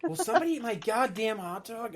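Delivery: half-hearted imitation of someone screaming out; imitated scream. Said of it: "heard somebody scream out".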